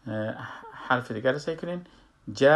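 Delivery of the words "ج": "ج" said as "ja" with open lips; open-lipped fatha. Shown as a demonstration. Teacher shows fatha on another letter, "ج" as open "ja".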